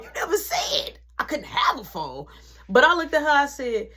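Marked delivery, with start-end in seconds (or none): 0.0-2.3 inner shout. Retold or imitated. Imagined yelling at mom.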